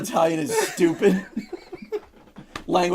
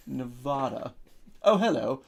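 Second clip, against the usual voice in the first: softer, mock refined voice saying Nevada with an ah as in father; cultured Nevada; 3 semitones lower, 6 dB quieter than usual. Mocking a posh traveler who says Nevada properly. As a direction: play a lightly snooty gentleman arriving. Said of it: "way more culture".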